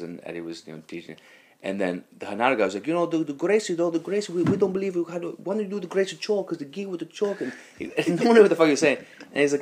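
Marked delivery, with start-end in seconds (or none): 2.9-7.4 high-pitched imitation of an insistent student; pestering objection, pitched well up; retold challenge. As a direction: mimic someone arguing over technique in a raised voice. Student challenging teacher in retold argument.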